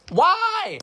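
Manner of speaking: high, drawn-out mock wail of protest; exasperated wail. Kid protesting the color system, exasperated wail. Child protesting being graded on behavior.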